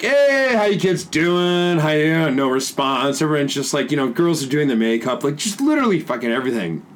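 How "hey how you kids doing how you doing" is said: a big high bright "Hey", then slow and sing-song; overly cheerful teacher greeting. Retold or imitated. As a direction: play the eager new teacher trying to win over the kids. Teacher greeting an ignored class.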